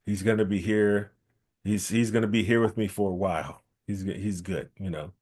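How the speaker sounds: soft, sly self-satisfied gloating; a quiet villain pleased with himself; evil gloat. Acted. Kiafani gloating to himself in the background, softly sly. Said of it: "doing his evil, evil smile".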